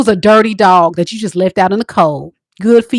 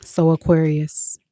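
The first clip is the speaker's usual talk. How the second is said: ex's voice; 3 dB quieter, slower than usual. Acted. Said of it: "this is what they would say".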